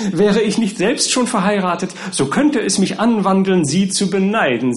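high, lively mock envy; jovial admiration. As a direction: congratulate the groom with playful envy. Lawyer jovially envies the bridegroom.

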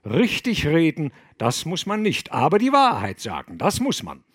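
stern abbot sermonising; reproving lecture. Acted. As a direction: moralise at them firmly. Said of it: "sprach tadelnd der Abt".

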